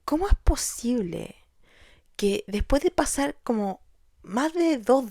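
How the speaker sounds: breathy whispered question to herself; hushed desperate whisper; despairing whisper. Retold or imitated. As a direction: whisper it in despair, asking the universe. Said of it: "Me preguntaba".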